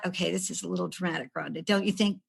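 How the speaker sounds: quiet, fast muttering to herself; self-talk. Retold or imitated. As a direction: talk yourself down under your breath. Talking herself down in the car.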